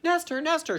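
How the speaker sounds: high, anxious calling; calling mother. Retold or imitated. Mother calling for Nestor, high and anxious. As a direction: call out for your lost son. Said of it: "looking for him".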